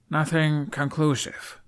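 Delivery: slow and careful; measured. A narrator's reading. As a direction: weigh each word. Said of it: "Hiccup's words sounded measured".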